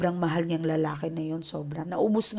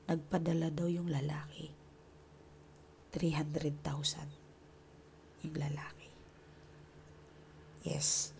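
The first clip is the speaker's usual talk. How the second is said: hushed whisper, like telling a secret; 4 semitones lower, 16 dB quieter than usual. Real, not acted. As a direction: drop to a breathy aside for the amount. Secret detail shared in hushed aside.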